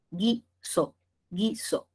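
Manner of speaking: GUISO in two separate syllables, gui-so, U silent; silent U shown. Shown as a demonstration. Teacher showing why no dieresis, guiso syllable by syllable with silent U. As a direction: sound out guiso as "gee-so", no w sound. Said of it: "no va porque no suena".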